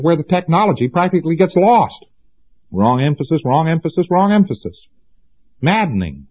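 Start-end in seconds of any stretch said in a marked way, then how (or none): 2.7-4.9 each "wrong emphasis" pitched higher than the last; exasperated repetition. Real, not acted. Hammering a repeated complaint about teaching.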